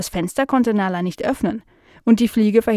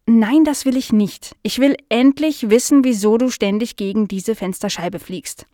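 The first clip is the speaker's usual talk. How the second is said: fed up; 2 semitones higher, 3 dB louder than usual. Acted. Dog demanding answers from the fly, fed up. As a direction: demand an answer, losing patience. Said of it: "Nala wurde das zu blöd".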